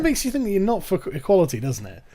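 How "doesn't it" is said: ordinary talk, nothing marked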